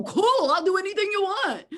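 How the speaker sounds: high, loud burst of eagerness; eager Labrador. Acted. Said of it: "'cause a Labrador go".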